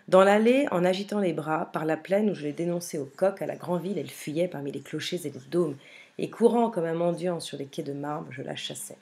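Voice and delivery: poem recitation. Acted. Teacher rereading a relished Rimbaud strophe, poem recitation. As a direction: launch the verse strongly, then ease down.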